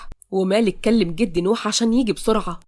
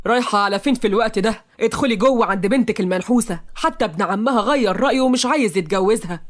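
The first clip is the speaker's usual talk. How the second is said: understated anger in a scolding; angry. Acted. Saad blocking his wife at the door, mildly angry. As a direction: confront her with mild anger. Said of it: "سعد بغضب".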